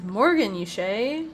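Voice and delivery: put-on light Southern accent with a slurred "shay"; a hint of a Western old soak. Old soak questions the adventurer, light Southern accent. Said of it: "I don't know why I think he's Western".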